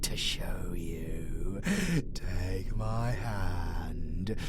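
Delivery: soft, low and slow whisper; whispered sinister invitation; menacing whisper. Acted. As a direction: lure them in with a hush. Villain beckons listener softly.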